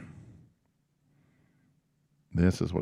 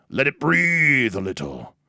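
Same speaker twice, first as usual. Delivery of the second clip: slow, higher, drawn-out Scottish barkeeper; bad Scottish accent; 6 semitones higher, 4 dB louder, slower than usual. Barkeeper letting the dwarven drink breathe, bad Scottish accent. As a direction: stretch it out in a fake Scottish brogue. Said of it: "in a bad Scottish accent".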